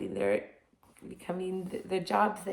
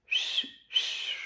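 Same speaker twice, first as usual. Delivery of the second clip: slightly louder whistle; 4 dB quieter than usual. Shown as a demonstration. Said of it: "That was a little bit louder".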